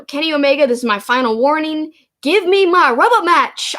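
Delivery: a hint of a British wrestler's threat; British accent. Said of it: "I can't do a, a awesome British accent".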